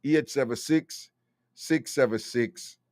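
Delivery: ordinary talk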